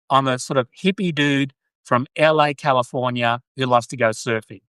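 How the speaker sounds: lightly put-on L A hippie dude accent; Californian hippie surfer accent. Australian practising her ideal accent, hippie Californian surfer accent. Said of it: "I wanna sound like".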